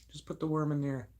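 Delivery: high, hushed scheming repeat. Acted. Speaker repeating the scheme as a soft, high echo. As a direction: drop the volume, keep the pitch up.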